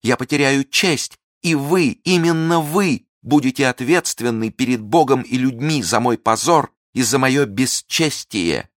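high, loud anguished pleading; desperate plea. Acted. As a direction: beg him, nearly hysterical.

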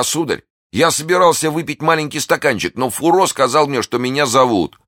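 high, plaintive excuse-making; frightened servant. A narrator's reading. Planchet excusing himself to his master, high and frightened.

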